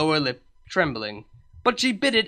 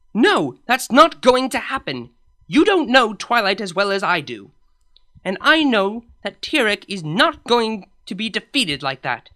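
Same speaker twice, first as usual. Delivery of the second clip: firm refusal; 3 semitones higher, 4 dB louder than usual. Acted. Celestia firmly refuses others' view.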